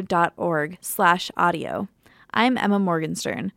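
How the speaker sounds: smooth radio sign-off read; podcast outro. Acted. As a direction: read it like a radio host closing the show. Reads the show outro.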